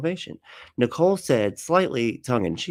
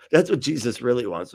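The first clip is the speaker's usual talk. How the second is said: casual hammed-up Musk agreeing; mock breezy Musk. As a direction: shrug it off like it's no big deal. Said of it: "Musk added".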